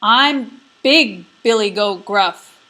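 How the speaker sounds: slow, loud big goat; big goat bleating. Acted. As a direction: announce it like a bold big goat. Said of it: "the third brother bleated".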